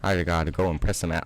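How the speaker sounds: a hint of Southern twang throughout; Southern accent. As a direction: play it as a Southern farmhand. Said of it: "I'm gonna stop this accent".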